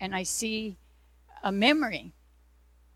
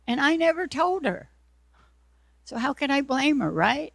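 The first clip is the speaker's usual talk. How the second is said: excited realization; 2 semitones higher, 4 dB louder than usual. Retold or imitated. Retold sudden realization about mother.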